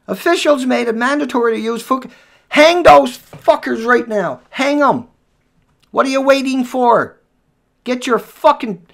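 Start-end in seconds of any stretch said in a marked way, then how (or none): 2.5-8.9 slow, loud, hammered rage; furious outburst. Real, not acted. Vlogger breaks off a headline to rage at officials, loud. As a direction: spit every word out, furious.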